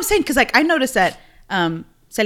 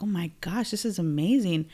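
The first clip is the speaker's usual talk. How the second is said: softer, whispered wonder; awed whisper; 2 semitones lower, 7 dB quieter than usual. Retold or imitated. Teacher recalls discovering Mexican history, whispering. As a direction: breathe it out in awe. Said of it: "I was like".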